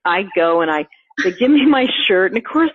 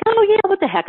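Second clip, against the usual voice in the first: much higher, breezy why-not; mock carefree; 11 semitones higher than usual. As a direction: toss it off like a happy whim. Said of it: "And I'm like".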